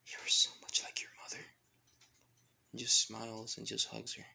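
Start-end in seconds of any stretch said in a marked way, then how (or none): 0.1-1.4 murmured as if during a hug; hushed tenderness. Acted. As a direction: say it in a near whisper, tenderly. Tearful hug in a retold scene.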